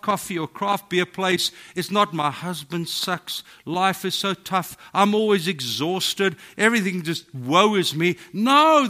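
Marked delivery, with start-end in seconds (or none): 2.1-8.2 mock complaining. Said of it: "the stories we tell ... is not". 8.3-8.9 much louder and higher, cutting it off; emphatic no. Real, not acted. Preacher rejects whining stories, loud and emphatic.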